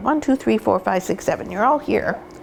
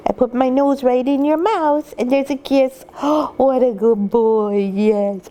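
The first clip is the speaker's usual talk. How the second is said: puppy talk; 3 semitones higher than usual. Real, not acted. Praising puppy after kiss.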